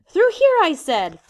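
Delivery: loud, high commanding yell; impatient shout. Acted. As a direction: bark the order again. Jack repeats order, shouting.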